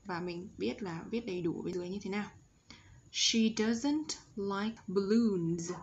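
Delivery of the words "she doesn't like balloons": "She" with a rounded-lip sh; slow teacher's model, careful sh in "She". Shown as a demonstration. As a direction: say it slowly, rounding the lips on "She". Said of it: "S H tròn miệng này".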